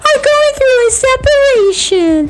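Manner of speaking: high babyish impression of Gypsy Rose. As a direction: squeak it out like a fragile little girl. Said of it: "I'm gonna do it in her voice".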